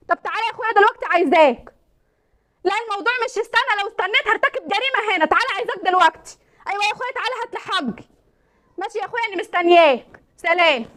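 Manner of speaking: hushed phone call. Acted. Noura quietly urges her brother on the phone to come. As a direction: keep it down, pressing him to come now.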